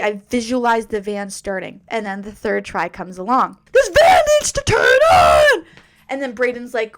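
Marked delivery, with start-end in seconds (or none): 3.7-5.6 high, loud commanding shout; desperate shout. Retold or imitated. Pleading to the universe for the van, desperate loud shout. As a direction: demand it with everything you have.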